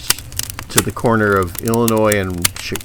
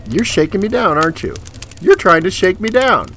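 higher, incredulous accusation; indignant disbelief; 11 semitones higher than usual. Retold or imitated. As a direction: call him out, stunned and outraged. Confronting the bouncer's shakedown.

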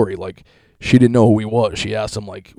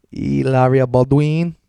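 mock drawl; 3 semitones higher, 5 dB louder, slower than usual. Mock drawn-out name.

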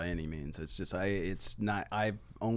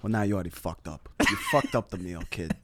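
remembered rude customer; 3 semitones lower than usual. Retold or imitated. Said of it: "in my memory, he was just like".

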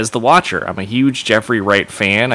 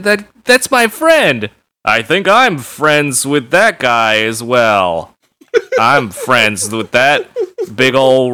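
slow, stilted, higher-pitched bad line read; mock phoned-in acting; 5 semitones higher than usual. Host mocking an actor who phoned in his lines, stilted mock read. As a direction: drag it out like a checked-out voice actor. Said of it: "might have been literally phoning those".

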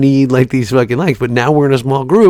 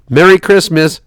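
higher, louder mock-cheerful greeting; mock cheery; 7 semitones higher, 5 dB louder than usual. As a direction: ham up the holiday cheer. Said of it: "seventeen exclamation points".

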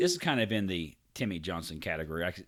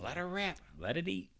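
high gleeful egging on; excited cheer; 10 semitones higher, 3 dB quieter than usual. Pretend. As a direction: cheer the cannon on. Cheering on imagined cannon.

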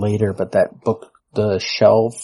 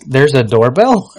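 loud, slow, higher mock disbelief; mock surprised question; 5 semitones higher, 9 dB louder, slower than usual. Suggesting what audiences should ask, hammed-up surprise, loud and slow. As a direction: draw it out as a stunned heckler. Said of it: "someone should ask".

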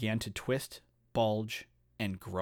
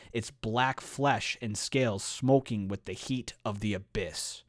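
measured, deliberate storyteller read; story narration. A narrator's reading. Host reading the chapter's monster transformation aloud, measured narration. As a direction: read it like a dramatic fantasy tale.

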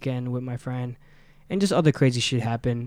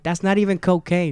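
loud, high, fed-up; exasperated; 5 semitones higher, 5 dB louder than usual. Retold or imitated. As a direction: correct him in frustration. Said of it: "and I'm like".

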